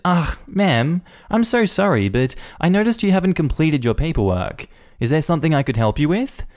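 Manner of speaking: sweet and accommodating on the surface; polite receptionist. Acted. Receptionist politely addressing Karen, sugary and careful.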